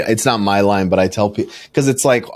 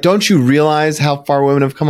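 higher-pitched retold indignation; mock scolding; 6 semitones higher than usual. Woman lecturing him in line, higher mock scolding. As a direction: imitate an offended woman lecturing you. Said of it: "chewed me out".

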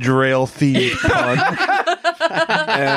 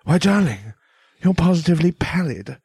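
dandy villain quip; 3 semitones higher than usual. Acted. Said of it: "And he gets up next to him and goes".

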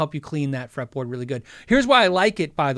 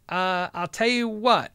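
ordinary delivery

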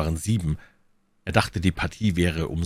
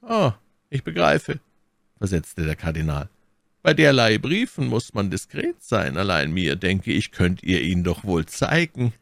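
the Cardinal; 2 semitones higher than usual. Acted. Cardinal coaxes Athos to show him the letter, slyly. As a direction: coax it out of them with mock discretion.

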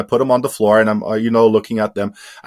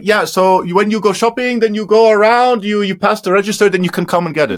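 high, singsong helpful-lady voice; mock-friendly woman giving directions; imitated store woman; 9 semitones higher, 3 dB louder than usual. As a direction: pitch it up as an obliging shop assistant.

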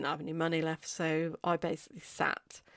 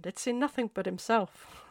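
lightly imitated Irish accent, pitched higher; rubbish Irish accent; 4 semitones higher, 3 dB louder than usual. Horse owner telling of Irish horses' sheltered lives, mock Irish accent. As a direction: have a rough go at an Irish accent. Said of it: "sorry for my rubbish Irish accent".

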